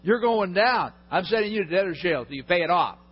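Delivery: loud, cold refusal; angry creditor refusing mercy; harsh refusal. Acted. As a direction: slam the door on him. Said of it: "He says".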